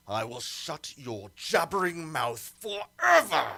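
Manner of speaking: shouted threat before striking; murderous threat. Acted. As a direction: snarl the threat as he lunges. Tyrant kills priestess.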